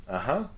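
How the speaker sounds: agreeing "Uh-huh" with a light rise; a quick, approving "Uh-huh"; positive uh-huh. Shown as a demonstration. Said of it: "So positively, you can go like". (un « Uh-huh » approbateur)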